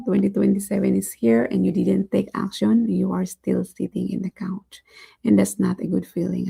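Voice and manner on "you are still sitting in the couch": hushed warning whisper. Acted. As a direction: drop to a whisper to make them picture it. Warning viewers stuck on couch.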